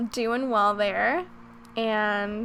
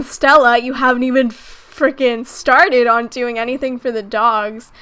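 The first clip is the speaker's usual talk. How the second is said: impatient viewer; 8 dB louder than usual. Retold or imitated. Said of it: "you guys are probably thinking".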